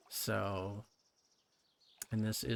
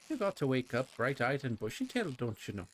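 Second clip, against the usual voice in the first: attempted Scottish accent. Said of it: "See? Like that".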